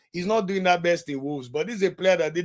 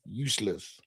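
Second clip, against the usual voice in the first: lower, much softer muttered repeat; quiet; 8 semitones lower, 11 dB quieter than usual. Real, not acted. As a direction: mutter it under your breath in disgust.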